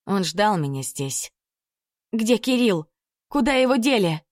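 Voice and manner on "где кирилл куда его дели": lunging demand. Acted. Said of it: "Набросилась на Амана".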